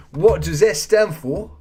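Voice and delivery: slow, loud, cockney-sounding Australian attempt; Australian accent gone cockney. Host repeats a quiz question, botched Australian accent sounding cockney. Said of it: "you sound cockney".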